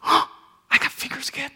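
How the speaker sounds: stunned leper discovering his fingers; astonished leper. Retold or imitated. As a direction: marvel at your own healed hands. Healed leper amazed.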